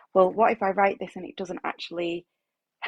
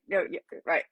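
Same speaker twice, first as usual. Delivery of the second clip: sarcastic. Real, not acted.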